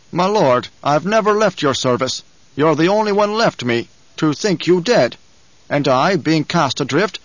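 slow, measured retainer, lightly voiced; a touch of wounded loyalty, drawn out in places; loyal retainer's lament. Gurney answers his lord about never leaving his service, lightly voiced lament.

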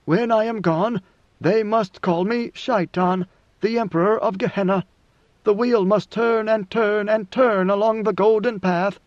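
lightly voiced emperor foretelling his legend; God Emperor, solemn. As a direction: pronounce it slowly, like a prophecy.

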